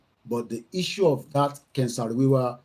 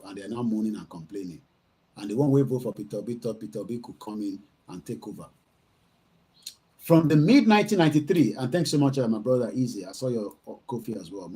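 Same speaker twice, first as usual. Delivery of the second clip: ordinary delivery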